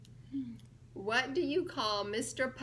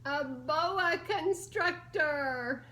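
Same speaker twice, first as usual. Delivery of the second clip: slow reveal; 3 semitones higher, 5 dB louder, much slower than usual. Acted. Punchline reveal read aloud.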